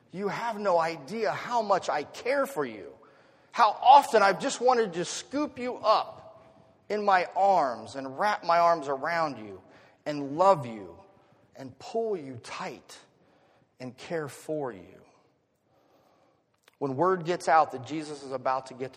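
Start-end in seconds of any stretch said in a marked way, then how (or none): 0.1-11.0 impassioned, loving plea, slowly drawn out; fatherly longing. Acted. Loving father telling his children he cares, with impassioned longing. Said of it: "longing of a caring, loving father". 11.6-15.0 slow, tender longing, easing down; slow down and soften into tenderness; loving father. Acted. Father longing to hold his children, slow and tender. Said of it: "loving father".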